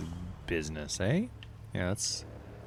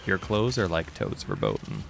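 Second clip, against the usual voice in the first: mock quote. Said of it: "Walk up to somebody".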